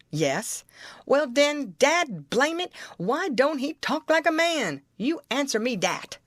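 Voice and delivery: indignant Southern-dialect debater; Jim, exasperated triumph. Acted. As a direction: press the argument home with mounting exasperation. Narrator voices Jim winning argument.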